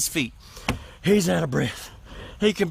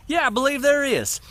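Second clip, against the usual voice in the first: sly farmer; 7 semitones higher than usual. Acted. Farmer sets up the punchline.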